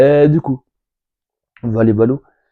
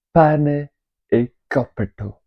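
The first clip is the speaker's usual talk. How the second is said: bad Italian accent; 3 semitones higher, slower than usual. Shown as a demonstration. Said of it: "Mon accent italien, hein, est pourri".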